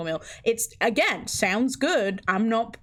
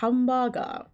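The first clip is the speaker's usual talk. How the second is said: put-on Japanese accent. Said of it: "in the forced Japanese accent".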